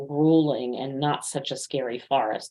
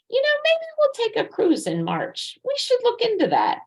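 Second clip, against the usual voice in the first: much higher, light and casual, tossing the idea out; breezy hypothetical suggestion. Retold or imitated. Coach imitating herself suggesting a cruise to husband, airy and high. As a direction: float a cruise idea offhandedly in a lilting voice. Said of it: "I do not hypothetically suggest".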